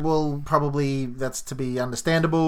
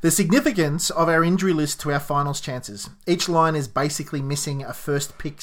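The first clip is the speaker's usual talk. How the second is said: measured radio host read. Shown as a demonstration. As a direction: read it like a broadcaster. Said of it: "I didn't have my radio voice on".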